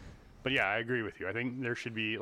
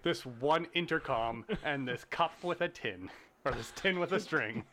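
laughing; 3 semitones higher than usual. Real, not acted. Laughing while joking.

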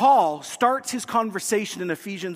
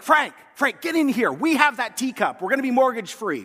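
higher, louder, thrilled shout to Frank; excited calling out; 6 semitones higher, 4 dB louder than usual. Pretend. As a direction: call Frank in like you've struck gold. Imagined call to husband, excited.

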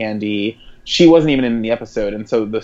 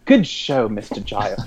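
Batman villain. Retold or imitated. Podcast host quoting the villain after the teapot blow, mock villainous. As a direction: lightly play the theatrical villain. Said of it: "she acts like a Batman villain".

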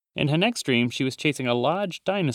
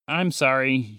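mouth full; slower than usual. Acted. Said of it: "she said through munching with a full mouth".

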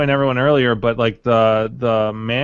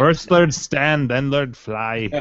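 lightly voiced wise master, slow opening; a hint of a mock sensei, measured; Mister Miyagi; much slower than usual. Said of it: "Mister Miyagi of the arcade community".

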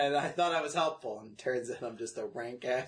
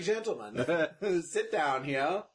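mock lecturer; much slower than usual. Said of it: "I'm like".

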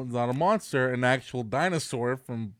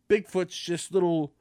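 ordinary talk, nothing marked

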